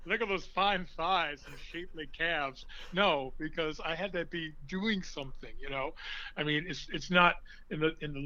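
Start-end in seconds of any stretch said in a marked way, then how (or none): 0.1-2.7 lightly voiced swooning fans, slow; mock admirers. Imagined audience ogling him on stage, mock lustful. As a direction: ham up a leering admirer, a touch slow. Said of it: "people were going".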